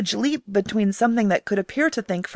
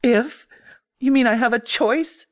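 spat accusingly; 4 semitones higher than usual. Acted. Grace accusing the AI, sharp biting retort. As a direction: throw it back at him. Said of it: "she spat accusingly".

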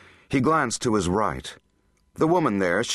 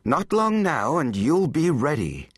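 high, rising-and-falling eager promise; thrilled, pitched well up; delighted encouragement; 6 semitones higher than usual. A narrator's reading. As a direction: encourage with barely contained pleasure. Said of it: "He almost wants to hug her".

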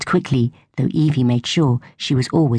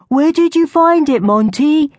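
high, louder call after someone running; 12 semitones higher, 4 dB louder than usual. A narrator's reading. Natalie calling after the passing shrew. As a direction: call after him, much higher. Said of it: "Natalie called after him".

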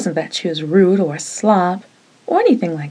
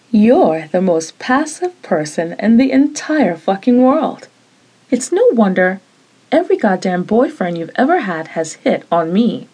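scornful, raised voice; angry jab; 2 semitones higher than usual. Acted. Roommate insulting Jeannie, angry jab. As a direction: twist the knife. Continuing the tirade.

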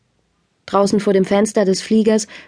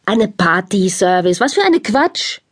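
lightly voiced Italian father, exclaiming; a hint of a scoffing father with an Italian accent; mock Italian father. Father scoffs at his son's catering plan, lightly voiced. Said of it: "rief er".

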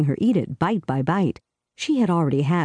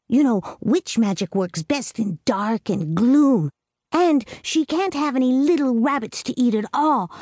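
put-on higher, earnest little girl voice; a small girl laying down the rules; little girl Amy; 6 semitones higher than usual. A narrator's reading. Amy telling Clarissa the witch's fate, in a higher girlish voice.

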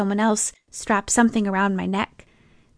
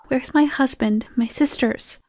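higher, whining plea for family; a pleading whine, pitched up; whiny; 4 semitones higher than usual. Acted. Trapped crash victim asking about family, whining. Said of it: "I hated the whine in my voice".

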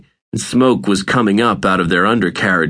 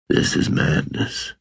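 breathy whisper, much softer; whispered thought; 5 dB quieter than usual. A narrator's reading. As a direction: whisper it to yourself as you slip away. Vincent's inner thought while fading.

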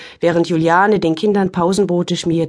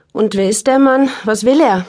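irritated; 4 semitones higher, 4 dB louder than usual. Acted. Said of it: "äußerst unwillig".

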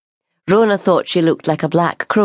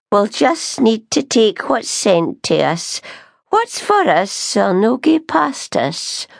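put-on slow, gloomy and higher old woman; gloomily; 6 semitones higher, slower than usual. A narrator's reading. Old customer resigned to fate at the door, gloomily. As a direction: sigh out the resignation slowly. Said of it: "she said gloomily".

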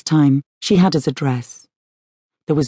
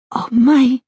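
surprised gasp; 8 semitones higher than usual. Acted. Clara hears of her grandchild.

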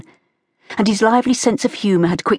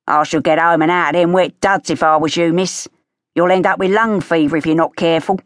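costermonger voice. Acted. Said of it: "The strident voice of a costermonger".

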